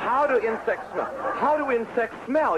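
laughing. Real, not acted. Laughing through the question.

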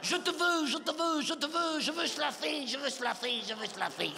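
high repeated pleas descending step by step; obsessed lover. Acted. Oula begs under the balcony, obsessed and fading. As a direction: chant desire, gradually running out of steam.

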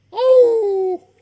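sudden breathy gasp of fright; startled whisper gasp. Real, not acted. Startled by weird howl.

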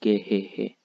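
sly little snicker; smirking snicker. Retold or imitated. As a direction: snicker smugly like the villain. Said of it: "le petit ricanement".

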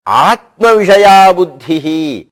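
ಆತ್ಮವಿಷಯ stretched out slowly; slow emphasis. Shown as a demonstration. Teacher stressing the key phrase to the audience, slow and weighty. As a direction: weigh each syllable of ಆತ್ಮವಿಷಯ ಬುದ್ಧಿ. Repeats Sanskrit definition.

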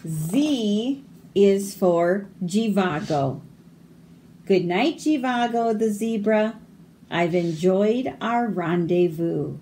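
deliberate read-aloud, lifted for the goodnight line; picture-book reading. Acted. Reader saying good night to Jivago the zebra, picture-book reading. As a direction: draw out the last page for children.

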